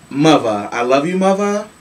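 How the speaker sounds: lightly put-on Philly accent; playful hint of a Philly voice. Host addressing Amber Rose before saying no, mock Philly accent. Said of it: "in my Philly voice".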